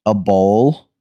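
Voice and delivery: mocking customer, drawn out with pauses; slow-ass talking. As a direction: stretch it out as if they can't follow. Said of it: "like, slow ass talking".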